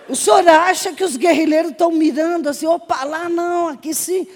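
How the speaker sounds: high, laughing fake innocence; mock naive. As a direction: question him with put-on innocence, high pitched. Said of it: "bem ingênua". (ingênua fingida, voz aguda)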